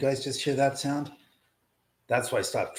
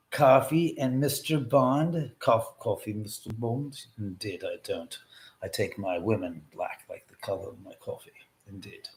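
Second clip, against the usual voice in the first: lightly voiced Bond villain; 4 semitones lower than usual. Bond-villain parody lines.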